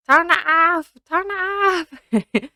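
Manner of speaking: screamed high, slowing into a terrified shriek; rising panic. Retold or imitated. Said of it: "no, in that Scottish accent, I promise".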